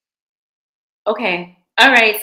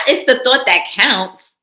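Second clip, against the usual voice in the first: put-on smug reassurance to a girlfriend; condescending pat-on-the-head tone; 3 semitones higher, 5 dB louder than usual. Shown as a demonstration. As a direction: say it like talking down to her.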